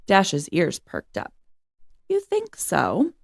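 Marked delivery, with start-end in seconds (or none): 2.1-3.1 slow, much higher, hopeful question; hopeful diva. Acted. Flattered show dog Dasha asks eagerly. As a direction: fish for more praise, eager.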